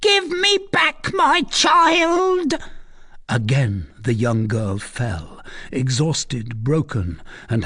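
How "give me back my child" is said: very high, drawn-out cry; anguished wail. A narrator's reading. Recluse demands her lost child, anguished wail. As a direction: wail it slowly at the top of the voice.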